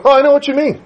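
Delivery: acted eager recognition; instant understanding. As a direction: jump in high, as if it is obvious. Relative instantly understands the fumbled words.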